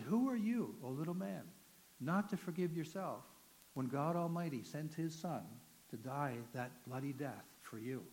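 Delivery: pointed rebuke that slows and sinks on the bloody death; a hint of a stern inmate, slowing to a hush. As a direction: drive it home slowly at the end. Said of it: "he never talked like that to me".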